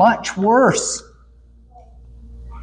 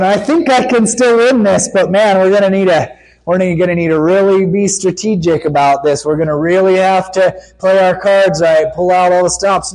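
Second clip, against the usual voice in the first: mock stressed out; 3 dB louder than usual. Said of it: "sound like God's stressed out".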